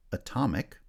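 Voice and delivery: "atomic" with its second syllable strong; second-syllable stress. Shown as a demonstration. Teacher adding the ic ending, stress shifted to second syllable of "atomic". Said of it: "stress has shifted to the second syllable".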